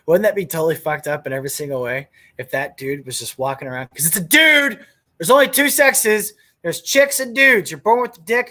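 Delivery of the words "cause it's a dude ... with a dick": emphatic rant. Real, not acted. Ranting to listeners about sexes, emphatic loud delivery. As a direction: hammer the point home, raising the voice.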